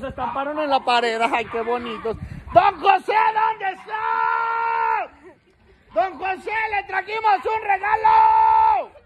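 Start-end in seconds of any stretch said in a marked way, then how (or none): 2.5-8.9 long drawn-out call across the street; calling out for don José. Real, not acted. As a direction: call him out of the house. Calling out for the neighbor.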